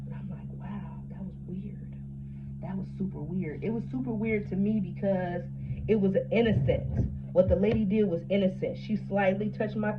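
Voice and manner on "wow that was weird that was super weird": stunned whisper. Retold or imitated. Telling her friend how weird it felt, in a stunned whisper. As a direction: breathe it out, baffled. Retelling own stunned reaction.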